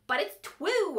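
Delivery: blocked-nose insistence; insisting with a sore nose. A narrator's reading. Fairy insists while holding her hurt nose. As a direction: say it through a throbbing nose. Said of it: "I insisted as I held my throbbing nose".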